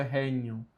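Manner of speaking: "regnum" as "ré-nhum", no hard g. Shown as a demonstration. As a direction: soften the gn of "regnum" to "ny". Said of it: "G com N tem som de N H". ("regnum" com som de nh, "rénhum")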